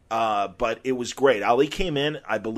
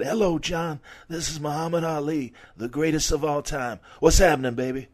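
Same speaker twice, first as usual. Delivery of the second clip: imitating Ali; 3 semitones higher than usual. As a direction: toss it off like the champ teasing a fan. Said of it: "And he said".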